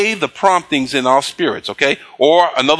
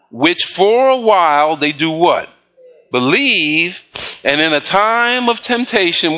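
slow, deliberate reading of scripture with questions to the crowd. Acted. Pastor reading the verse to his congregation, slow and deliberate. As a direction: read the verse slowly, pausing for answers.

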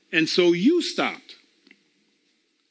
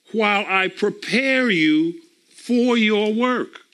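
firm, measured reading of God's command; scripture reading; slower than usual. Acted. Preacher reading God's call to stand up, firm and slow. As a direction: read it slowly like orders from a commander.

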